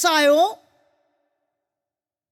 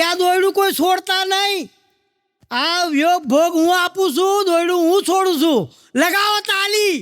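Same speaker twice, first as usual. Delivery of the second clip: teacher's shout. Retold or imitated. Teacher shouting to lawyers and engineers to clap, mock rousing. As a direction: call out to the plane like a cheerleader. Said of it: "એમને જોરથી બૂમ પાડી".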